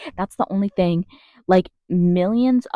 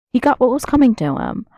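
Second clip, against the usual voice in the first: higher-pitched mocking repeat of a hateful comment; mock quoting; 5 semitones higher, 3 dB louder than usual. Quoting hateful commenters back in disbelief, mock quoting. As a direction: parrot a callous commenter in a higher voice.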